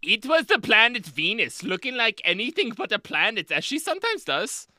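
high, loud and breathy-free seductive delivery of the quote; sultry sexy reading. Retold or imitated. Host imitating an official reading the quote sexily. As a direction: purr the line like a romance novel opening. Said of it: "imagine him just reading it like".

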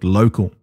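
"local" set apart with measured stress; emphasis on LOCAL. Real, not acted. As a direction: lean gently on the word "local". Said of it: "I would like to emphasize the word".

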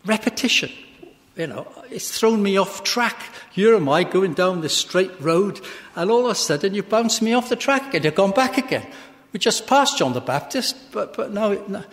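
acting out puzzled frustration; perplexed. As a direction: protest as if thrown off track. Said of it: "I've always found perplexing".

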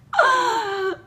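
loud, high gasp of delight; real delighted gasp; overcome gasp. Real, not acted. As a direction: gasp as if struck by cuteness. Finds an adorable little cap.

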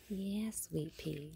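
soft, slow whisper to the pet. Real, not acted. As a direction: breathe it gently, barely voiced. Cooing at a feeding animal.

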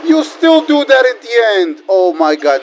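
high-pitched, incredulous protest; exasperated high outburst at the game; pissed off. Real, not acted. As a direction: complain in real outrage, pitch way up then sliding down. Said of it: "nah, I'm pissed".

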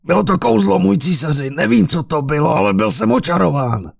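high, panicked excuse; desperate pleading. A narrator's reading. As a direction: plead for your life. Carlos pleads with emperor.

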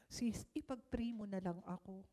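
soft whispered request; whispered plea. Retold or imitated. Battered wife pleading quietly. (pabulong na pakiusap)

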